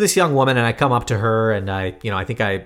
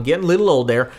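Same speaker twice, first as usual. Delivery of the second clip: put-on joking old-timer Southern accent; 3 semitones higher, faster than usual. Co-host jokes about getting old, mock Southern accent. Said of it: "getting old makes you have a Southern accent".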